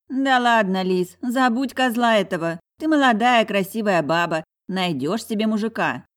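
громко и выше, с нажимом утешает подругу; увещевающая подруга. A narrator's reading. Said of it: "увещевала Лариса". (громко, настойчиво уговаривая)

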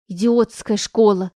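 loud, slow yell of contempt; shouted out. Acted. Anya shouts at her mother about the school, slow yell. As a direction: fling it out at full voice. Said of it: "выкрикнула Аня".

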